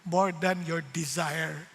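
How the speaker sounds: slow, calm, lightly voiced answer; lightly voiced God. God gently tells the preacher to love his wife, slow and calm. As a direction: give each word time, like a gentle lesson.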